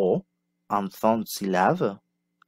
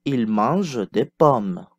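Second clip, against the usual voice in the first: slow model sentence; slower than usual. Shown as a demonstration. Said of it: "Passons au son".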